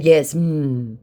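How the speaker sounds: mocking. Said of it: "I mocked him".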